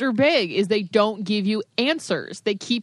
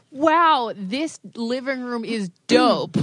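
mock impressed husband; 2 semitones higher, much slower than usual. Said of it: "what he says when he goes on house tours".

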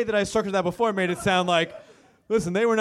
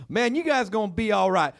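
sincere redneck fan; 7 semitones higher than usual. Retold or imitated. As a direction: play a well-meaning heckler giving advice. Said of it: "He was like".

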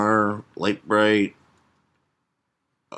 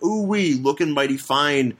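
higher Southern cowboy drawl; Southern cowboy accent; 3 semitones higher, slower than usual. Acted. Cowboy admires woman coming downstairs, Southern accent. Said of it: "say it in an accent".

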